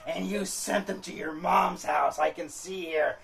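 a wife catching him out; accusing wife. Retold or imitated. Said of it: "now she's like".

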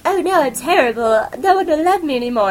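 high, hammed-up wailing heroine; mock despair. Shoujo heroine lamenting her fate, high mock despair. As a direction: play the tragic girl over the top.

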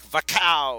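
comic gun noise read aloud with relish; blaster sound effect. Retold or imitated. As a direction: make the blaster go off. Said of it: "I love the sound effects".

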